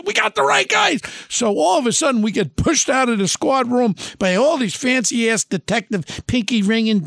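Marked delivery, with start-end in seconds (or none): 0.1-1.0 mock boast. Detectives boasting, mocked.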